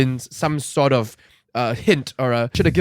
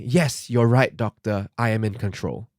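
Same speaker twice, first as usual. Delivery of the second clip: subdued reply; 5 semitones lower, 5 dB quieter than usual. Acted. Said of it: "is him replying".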